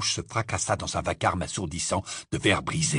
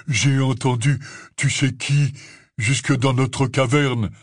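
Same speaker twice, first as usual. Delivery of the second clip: grave; 3 semitones higher, 5 dB louder, slower than usual. A narrator's reading. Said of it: "répondit-il d'un air grave".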